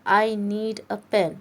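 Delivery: very slow, each word spelled out for learners; slow example sentence. Shown as a demonstration. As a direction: read it out word by word like a teacher. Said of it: "For example". (धीमा उदाहरण वाक्य, हर शब्द अलग)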